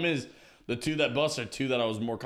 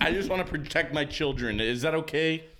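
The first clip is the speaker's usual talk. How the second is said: overprotective dad; 3 semitones higher than usual. Acted. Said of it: "overprotective dad on Halloween".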